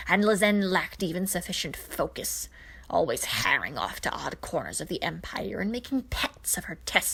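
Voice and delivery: put-on a raspy, contemptuous old witch, half-whispered; scornful old witch. Witch Hagar scoffing at Zarkon's suggestion, contemptuous. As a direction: sneer it like a proud sorceress.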